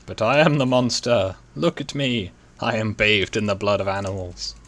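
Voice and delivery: hammed-up villain with cackle; mad scientist. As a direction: play a gleeful mad villain. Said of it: "I'm losing it a bit".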